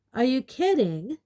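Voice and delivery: high, loud disbelief; Bill amazed at Harry's question; incredulous. A narrator's reading. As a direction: ask it in disbelief. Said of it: "said Bill incredulously".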